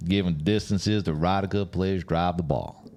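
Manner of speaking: lightly put-on American golf announcer; mild mock American broadcast read. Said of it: "my golf announcer's voice?".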